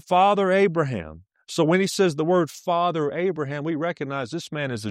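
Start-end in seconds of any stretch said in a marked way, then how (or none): 0.0-1.2 raised, higher call. Retold or imitated. Rich man calling to Abraham from the flames, raised voice. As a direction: call it out across the distance. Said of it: "but he's calling out".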